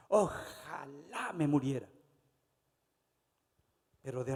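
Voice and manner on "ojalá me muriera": mock self-pitying sigh. Preacher mocks a believer who gives up, whiny and slow. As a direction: overdo the self-pity so it sounds silly. Como no puede.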